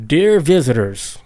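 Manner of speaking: slow, stately envoy greeting, lightly put on; a hint of a grand official welcoming strangers, slow; proper announcer voice, slowed right down; deep formal voice. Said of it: "like, in a deep voice".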